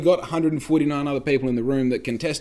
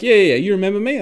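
high, loud eager recognition; hammed-up excited woman at the pub; excited girl; 10 semitones higher, 9 dB louder, faster than usual.

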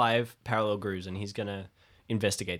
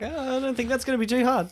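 mock confident; 12 semitones higher than usual. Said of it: "And I'm like".

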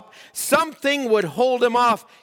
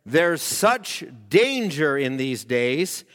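a lightly voiced heavenly warning, lower and slow; a hint of a solemn divine voice; voice from above; 6 semitones lower, much slower than usual. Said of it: "And a voice said".

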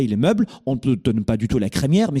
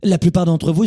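normal talking voice

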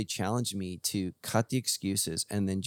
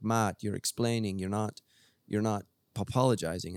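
badly faked English accent; terrible English accent. A friend admonishing Matt, in a poor English accent. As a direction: attempt an English accent, not very well. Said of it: "that was a terrible English accent".

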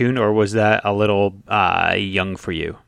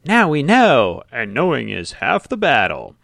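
PSA catchphrase; 4 semitones higher, 4 dB louder than usual. Retold or imitated. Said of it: "they'd always say".

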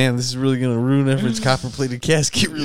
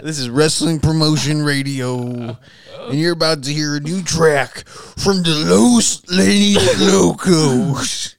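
radio announcer. Pretend. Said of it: "do your best rap promo".

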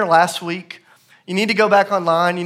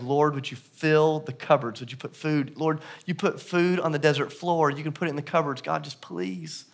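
soft, hushed plea fading away; pleading prayer; 6 dB quieter than usual. Retold or imitated. Father begs God for food on the stairs, pleading prayer. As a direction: pray quietly, nearly out of hope. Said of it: "and he's just praying".

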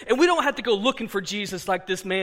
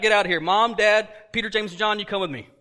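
loud, firm order; Jesus clearing the house, shouting firm orders; commanding shout; 6 dB louder, faster than usual. Acted. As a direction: throw them out loudly. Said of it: "And then he kicks them all out".

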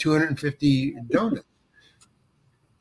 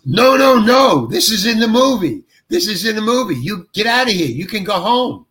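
excited overruling; 5 semitones higher than usual. Retold or imitated. Director tells actor the flub stays, excitedly insistent. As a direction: imitate a delighted insistence, pitched up.

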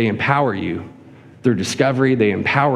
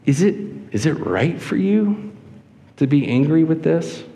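gentle, questioning inflection, a little higher; empathetic question; 3 semitones higher than usual. Acted. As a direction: ask it with care, unhurried and rising. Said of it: "a level of empathy and a level of emotion in what he says".

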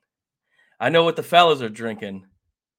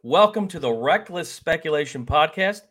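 showman greeting; 3 semitones higher, 6 dB louder than usual. Acted. Host opening the show, drawn out.

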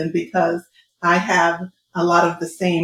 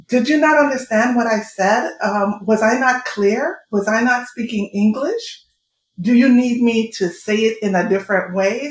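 pointed, disbelieving questions, pitched up; testy string of rising questions; exasperated questioning; 3 semitones higher, 3 dB louder than usual. Retold or imitated. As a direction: ask as if checking they can follow. Quoting own exasperated questions to people.

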